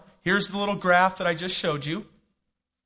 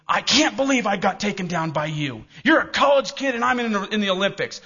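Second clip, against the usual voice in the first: mock indignant Olympian; 5 semitones higher, 3 dB louder than usual. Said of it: "It wasn't encouraging me".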